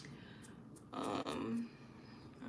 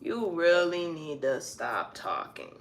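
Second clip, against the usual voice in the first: slow and gentle; 2 semitones lower, much slower than usual. Shown as a demonstration. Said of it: "not even like".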